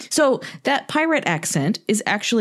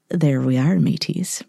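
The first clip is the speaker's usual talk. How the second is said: lightly voiced pirate accent; playful hint of pirate accent; 4 semitones lower than usual. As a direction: slip into a mild mock pirate accent. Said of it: "I will be using that pirate voice".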